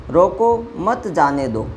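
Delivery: "रोको" set off on its own, then "मत जाने दो" run on together; comma after रोको. Shown as a demonstration. Teacher showing students the meaning of stopping, comma after "रोको". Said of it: "यहाँ विराम चिन्ह प्रयोग हुआ है".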